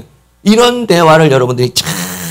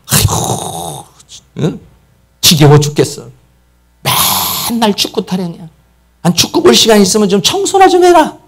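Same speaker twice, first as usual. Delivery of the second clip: nagging wife; 9 semitones higher than usual. Retold or imitated. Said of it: "근데 뭐라고 말합니까?".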